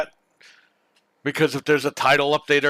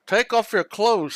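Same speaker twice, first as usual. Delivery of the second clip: slow, higher robotic movie-killer voice; lightly voiced Terminator; 6 semitones higher, slower than usual. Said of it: "says the Terminator".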